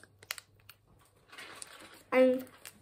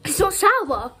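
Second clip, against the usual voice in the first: laughing; 5 semitones higher, 7 dB louder, slower than usual. Real, not acted. Laughing at sour candy test.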